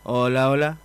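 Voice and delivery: ordinary talk, nothing marked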